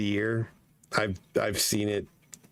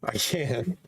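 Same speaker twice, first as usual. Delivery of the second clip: worn-out voice; 3 semitones lower than usual. Real, not acted. Host admitting to co-hosts the voice is done, worn-out. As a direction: voice nearly gone, slightly lower. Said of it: "My voice is fucking done".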